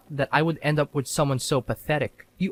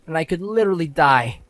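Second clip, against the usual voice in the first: louder mock melodrama; mock wailing; 3 semitones higher, 4 dB louder than usual. Husband mimicking his wife's despair, hammed-up wail. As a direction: overplay the dying victim mockingly. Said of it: "sobbing and wailing".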